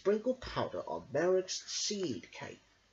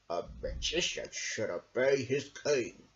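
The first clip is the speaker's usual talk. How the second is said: smooth Sondrak; 4 semitones lower than usual. A narrator's reading. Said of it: "said Sondrak".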